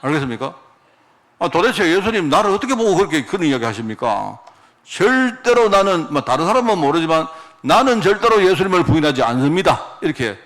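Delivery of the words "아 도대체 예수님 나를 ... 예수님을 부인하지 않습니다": mock-angry protest, insistent and a bit raised; indignant outburst. Peter indignantly answering Jesus's prediction of betrayal, forceful protest. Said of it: "화를 팍 내면서".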